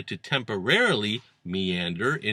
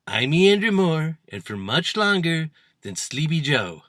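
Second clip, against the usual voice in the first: lightly higher, boastful mock quote; mock boasting; 4 semitones higher than usual. Monologue host quoting Trump's boast, mock boasting. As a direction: crow it with light exaggeration.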